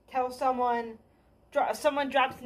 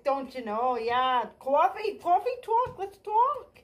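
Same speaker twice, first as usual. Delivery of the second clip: mock New York accent; 2 semitones higher than usual. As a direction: sell it like a sexy New York Jew, New York accent. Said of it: "it's better to talk like".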